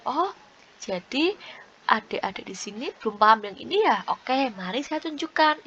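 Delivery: gentle, understanding teacher demo; kindly check, then offer to show them; supportive teacher. Shown as a demonstration. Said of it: "Itu kan beda rasanya".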